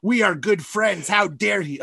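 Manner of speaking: mock-offended, drawing out the outrage; drunken indignation. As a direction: act tipsily affronted, slow on the first words. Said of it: "that's how mad I was".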